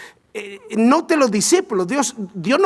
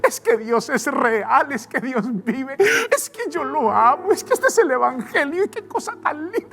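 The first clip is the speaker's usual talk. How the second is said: joyful shouting; 10 semitones higher than usual. Retold or imitated. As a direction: shout it like a man set free. Siervo perdonado salta de alegría. (gritos de alegría, muy agudos)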